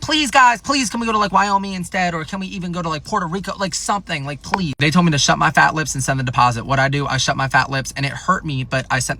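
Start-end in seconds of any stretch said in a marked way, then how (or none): 0.0-4.7 pleading. Retold or imitated. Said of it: "I was like".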